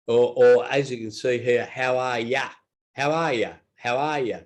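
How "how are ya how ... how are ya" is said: Australian casual. Shown as a demonstration. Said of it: "that's very Australian".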